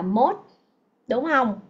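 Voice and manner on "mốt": MOST said as "mốt", final s dropped; mispronounced most. Shown as a demonstration. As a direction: say most short, like Vietnamese "mốt". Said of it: "Rất nhiều bạn đọc từ này là". (đọc sai most thành "mốt", mất âm s)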